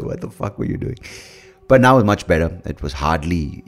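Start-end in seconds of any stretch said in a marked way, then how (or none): 0.0-1.0 hushed, breathy whisper of disbelief at yourself; whispered self-scold. Retold or imitated. Scolding his past self.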